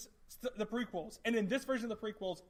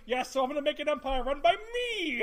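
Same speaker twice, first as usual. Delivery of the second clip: scary Palpatine voice; 6 semitones higher, 5 dB louder than usual. Retold or imitated. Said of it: "and he's going".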